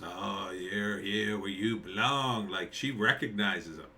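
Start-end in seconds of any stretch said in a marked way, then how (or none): 0.0-2.5 put-on old woman. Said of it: "this old woman says".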